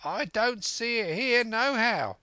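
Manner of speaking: very high, loud shouted reply; high-pitched sailor's yell; calling back down. A narrator's reading. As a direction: shout down that your search has failed. Man calls answer down from window.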